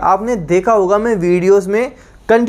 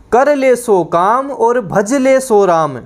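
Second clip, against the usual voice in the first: slow proverb announcement; 4 semitones higher, slower than usual. Shown as a demonstration.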